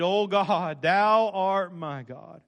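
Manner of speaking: slow, solemn psalm reading; measured King James recitation; scripture reading. Acted. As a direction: read the psalm reverently. Reads psalm aloud again.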